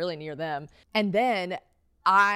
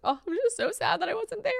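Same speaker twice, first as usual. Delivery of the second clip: very high, pouty little voice; hammed-up squeaky sadness; mock sad whimper. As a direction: act out whiny, tearful regret. Acting out regret to friend.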